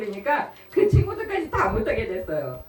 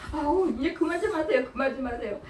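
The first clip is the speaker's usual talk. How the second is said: pleading, laughing, higher; laughing plea; 5 semitones higher than usual. Retold or imitated. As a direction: laugh while begging her to stop. People begging the old deaconess.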